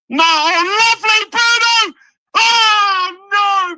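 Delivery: high, loud cry of frustration; real frustration; near-miss cry. Real, not acted. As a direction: groan out loud as it goes wide. Shot just wide.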